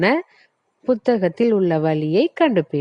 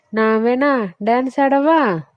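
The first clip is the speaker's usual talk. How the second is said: high playful cartoon offer; pumpkin's voice; 4 semitones higher than usual. Pumpkin offers to dance for the boy, playful high voice. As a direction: coax the boy with a cheery offer. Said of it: "பூசணிக்கா".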